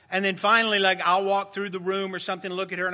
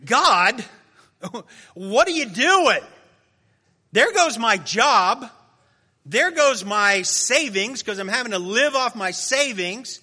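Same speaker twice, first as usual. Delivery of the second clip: retold angry prayer; 3 semitones higher, 6 dB louder than usual. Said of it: "and it was like".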